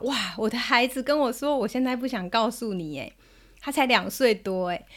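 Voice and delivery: a touch of disbelief, lively retelling; mildly startled. Retold or imitated. Mum retelling her toddler's refusal, mildly shocked. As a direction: repeat the child's refusal in mild astonishment. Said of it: "当下我其实真的有点吓一跳".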